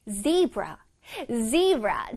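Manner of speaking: "zebra" with a very clear buzzed Z; distinct Z. Shown as a demonstration. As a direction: sound the opening Z of "zebra" clearly. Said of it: "z 부분을 아주 뚜렷하게 발음을".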